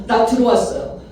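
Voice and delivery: normal talking voice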